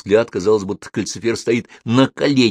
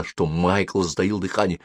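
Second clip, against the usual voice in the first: ordinary delivery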